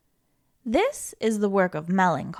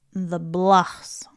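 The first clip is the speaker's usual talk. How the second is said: whispered; 6 semitones lower than usual. Acted. Feelings chart, last item whispered.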